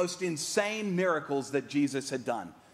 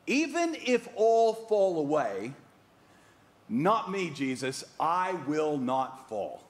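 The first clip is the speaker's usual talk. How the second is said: bold Peter vow; slower than usual. Retold or imitated. Peter's bold declaration quoted.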